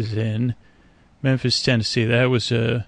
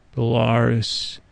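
slow, creaky frog croak; slower than usual. Retold or imitated. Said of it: "Frogs have creaky dulcets".

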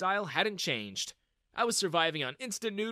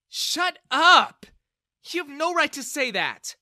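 very loud, high outburst; angry shout; 12 semitones higher, 12 dB louder than usual. Acted. Daughter shouts down her father, furious. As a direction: cut him off with a shout. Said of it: "Bella intervened".

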